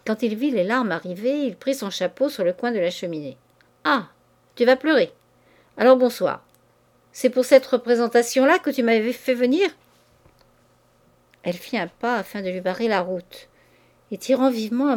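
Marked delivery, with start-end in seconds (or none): 3.8-9.7 louder, sneering at her tears; scornful mockery. Man leaving as his mistress starts to cry, scornful. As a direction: brush her off with contempt.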